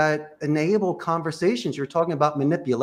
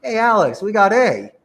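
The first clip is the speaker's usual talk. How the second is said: louder, with a beat after the name; pause and punch; 4 semitones higher, 5 dB louder than usual. Shown as a demonstration. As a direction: hit the name, pause, then give one item. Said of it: "say it and pause".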